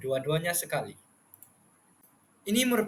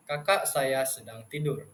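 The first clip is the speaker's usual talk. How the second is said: low flat statement, softer; 3 semitones lower, 4 dB quieter than usual. Shown as a demonstration. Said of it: "Nada rendah digunakan dalam ayat-ayat penyata". (nada rendah ayat penyata)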